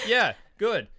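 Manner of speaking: loud, high mock Aussie carny; Australian accent. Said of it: "you need to say that in your Australian accent".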